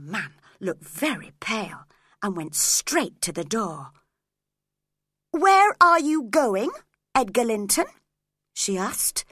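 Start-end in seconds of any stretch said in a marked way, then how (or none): 5.3-7.9 urgent call. Acted. Catherine calling after Edgar, loud and urgent. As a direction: stop him at the door.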